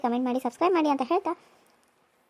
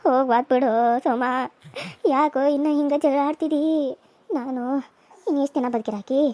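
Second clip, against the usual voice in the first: put-on frail old mother. Old mother pleading with son not to hit the girl, frail. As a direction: gently plead with her son.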